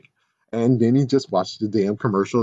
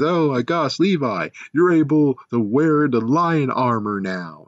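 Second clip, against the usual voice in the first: mocking vision voice; 5 semitones higher than usual. Mocking the show's vision line.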